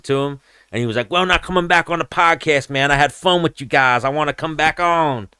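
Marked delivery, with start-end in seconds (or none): 1.1-5.3 high put-on fighter voice; lightly hammed-up relaxed chat; imitating a fighter passing a blunt; casual stoner. Fighter talking while smoking.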